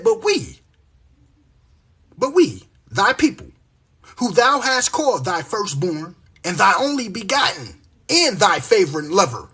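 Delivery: loud, emphatic scripture reading; street-preacher reciting scripture; scripture declamation. Acted. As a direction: preach the verse out forcefully.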